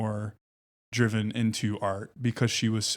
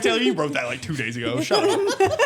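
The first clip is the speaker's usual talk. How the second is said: teasing scoff; 5 semitones higher, 4 dB louder than usual. Retold or imitated. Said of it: "I'm like".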